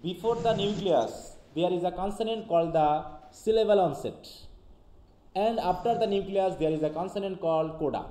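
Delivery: slow, deliberate reading of an English definition; dictating slowly to students; slow textbook reading. Acted. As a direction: read it out word by word for the class.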